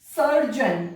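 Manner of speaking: सर्जन ending in a short jun. Shown as a demonstration. Teacher modelling surgeon for students. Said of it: "जन pronounce करते हैं".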